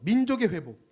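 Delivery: loud, proclaiming call; loud declaration. Acted. Pastor leading the congregation in a loud declaration. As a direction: call it out for the church to repeat. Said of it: "함께 선포합시다".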